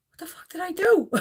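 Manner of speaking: "What the fuck did I do?" in a breathy whisper; whispered panic. Retold or imitated. Whispering to herself after missing Veronica. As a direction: hush it like a guilty realization. Panicked self-question, retold.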